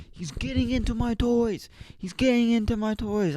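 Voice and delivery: put-on high falsetto whine of a kid; mock tattling. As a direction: tell on your brother in a squeaky-high voice. Retells child's tattling protest.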